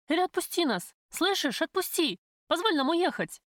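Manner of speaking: high, desperate defiance; defiant plea. A narrator's reading. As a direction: beg and dare him at once. Heroine defies gunman, pleading. (отчаянный высокий крик)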